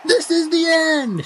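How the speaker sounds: high, loud panicked laughing cry; mock-doomsday laughing shout. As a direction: shriek it through laughter. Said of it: "shouted everyone".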